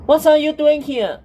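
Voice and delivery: high, loud shocked question. A narrator's reading. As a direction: blurt it out in alarm. Daughter finds injured father.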